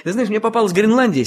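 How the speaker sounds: chuckling through the words; laughing. Acted. Boy laughs while explaining.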